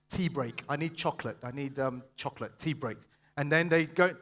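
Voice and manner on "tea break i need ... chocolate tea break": low, soft mumbled excuses; quiet, distracted self-talk; acting out procrastinator. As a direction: mutter cravings to yourself. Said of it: "It's like this".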